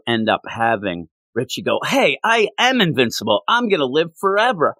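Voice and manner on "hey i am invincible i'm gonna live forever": higher-pitched, imitated cocky kid; mock youthful boast. Young driver boasting to older mobster, imitated cockiness.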